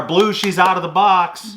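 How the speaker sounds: retold yell. Fan yelling to the umpire from the stands, mildly re-enacted. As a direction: call it out without full volume. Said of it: "I yelled to the umpire".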